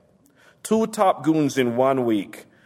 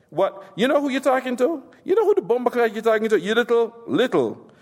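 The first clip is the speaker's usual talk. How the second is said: indignant phone fury; 9 semitones higher than usual. Acted. Phone quarrel with government man.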